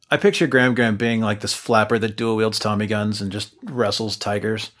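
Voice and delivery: ordinary talk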